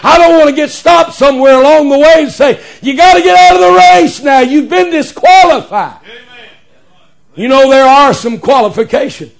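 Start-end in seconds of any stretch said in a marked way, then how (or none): 2.8-6.0 official ordering someone out. Acted. Acts out an official stopping him.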